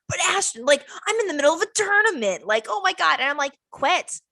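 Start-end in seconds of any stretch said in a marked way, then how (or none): 0.1-3.2 higher, quick pleading whine; mock the gamer begging to keep playing; whiny boyfriend. Boyfriend begs her to let him finish the tournament, mock whine. 3.7-4.2 mock yell. Ordering him off the desk.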